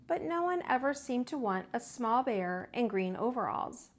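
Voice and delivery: put-on gentle read-aloud for children; storybook narration. A narrator's reading. Teacher reading to kids, gentle. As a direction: tell it like bedtime for little ones.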